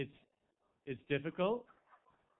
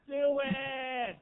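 urging shout; 10 semitones higher, 7 dB louder than usual. Real, not acted. Urging proposal.

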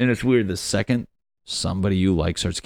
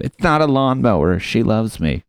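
defensive grandpa; 3 semitones higher, 4 dB louder than usual. Acted. Grandpa defends his sex doll.

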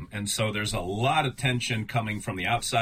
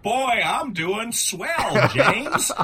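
mock cheerful; 11 semitones higher, 6 dB louder, much slower than usual. Sarcastic reply after teasing.

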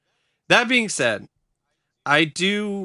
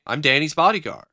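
quoting Danny; 4 semitones higher, 6 dB louder, faster than usual. Retold or imitated. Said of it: "he actually explains exactly what it is".

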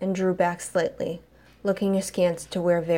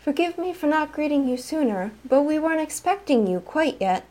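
bellboy voice; 7 semitones higher than usual. Acted. Bellboy speaking, character voice.

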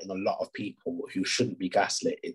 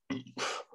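a real burp; 9 dB quieter than usual. Real, not acted. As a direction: let out a soft burp. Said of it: "sorry, I'm gonna burp".

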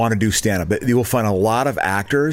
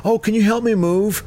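high-pitched wheedling favor request; high sweet asking voice; 10 semitones higher than usual. Retold or imitated.

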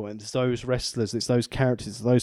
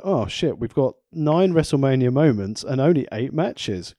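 mock panicked booker; 3 semitones higher than usual. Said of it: "they're like".

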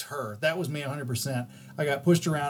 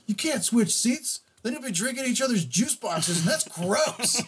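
put-on boy's voice; 8 semitones higher than usual. Mother retelling the boy's objection in a high fussy voice. Boy voiced in retold story.

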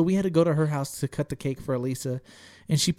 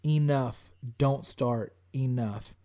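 stern; 2 semitones lower, 4 dB quieter, much slower than usual. Retold or imitated. Giving Elisa that stern mug as her eyes tear up, stern. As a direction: re-enact a firm shut-down with falling endings. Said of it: "I'm giving her that stern".

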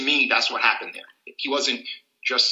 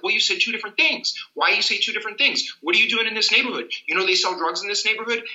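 higher-pitched, suspicious mock police questioning; accusing questioning; 6 semitones higher than usual. Police officer challenging a driver who said two different things, accusing. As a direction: press the driver like a doubting officer.

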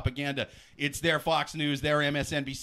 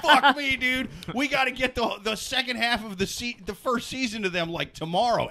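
panicked hungover writer; 5 semitones higher than usual. Retold or imitated. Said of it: "and they were like".

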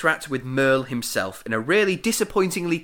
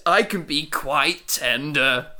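slow, drawn-out mock-tearful offer; hammed-up pleading, stretching the words; Salem; slower than usual. Salem offering Merlin his love, lightly hammed-up tearful plea. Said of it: "Salem cries".

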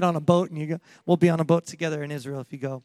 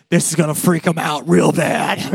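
laughing; 3 semitones lower, 4 dB louder than usual. Retold or imitated. Jesus voiced, laughing mid-quote.

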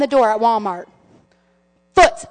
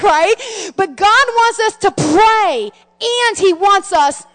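raised, driving sermon voice; emphatic preaching; 6 semitones higher, 5 dB louder than usual. Real, not acted. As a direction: press the lesson home to the congregation. Drives home the sermon's lesson.

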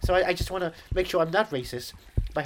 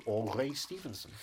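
slow, softer slip into Welsh; low, slow touch of Welsh; a bit Welsh; 5 semitones lower, 6 dB quieter, slower than usual. Real, not acted. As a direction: drift into a Welsh lilt, low and drawn out. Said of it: "A bit Welsh there".

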